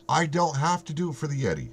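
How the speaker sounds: lightly put-on Canadian accent. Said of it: "'Cause I'm saying it in the Canadian accent out loud".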